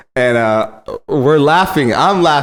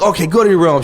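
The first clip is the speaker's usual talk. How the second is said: joking stern; 6 semitones higher than usual. Retold or imitated. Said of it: "and jokingly like".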